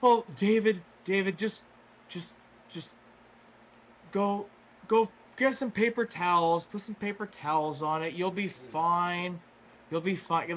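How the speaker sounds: lightly voiced, halting mellow dad; hesitant start, easing into casual reassurance. Imitating mellow dad advising injured David by phone, halting reassurance. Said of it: "this mellow, just, like, super mellow dude".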